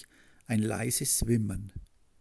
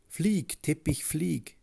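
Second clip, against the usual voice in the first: calling out; 5 semitones higher, slower than usual. A narrator's reading. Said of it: "und ruft".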